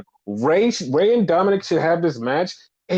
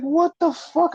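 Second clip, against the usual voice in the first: mock disbelief; 12 semitones higher than usual. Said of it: "it's like".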